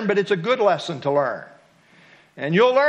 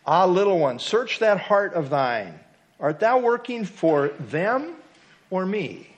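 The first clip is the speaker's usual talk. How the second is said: tender; 2 semitones lower than usual. Acted. God answering the reluctant worker in the poem, tenderly. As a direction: answer like a loving father. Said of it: "He answered me tenderly".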